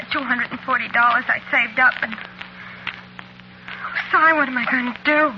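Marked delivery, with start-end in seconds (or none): 2.0-5.3 breathy sob breaking into a plea; tearful. Acted. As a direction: near tears, begging for help. Waitress who has been crying.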